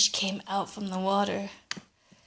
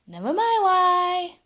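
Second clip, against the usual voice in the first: high, loud mean wife cutting him off; snapping wife; 9 semitones higher, 6 dB louder than usual. Acted. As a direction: snap it at the old man. Wife snaps at grandpa.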